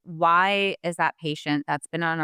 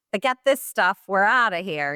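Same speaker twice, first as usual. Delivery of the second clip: put-on sudden higher-pitched Jersey-style accent; East Coast accent; 4 semitones higher than usual. Burned-out hygienist ready to quit, East Coast accent. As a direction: slip into a tough New York or Jersey accent. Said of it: "I don't know what that accent was".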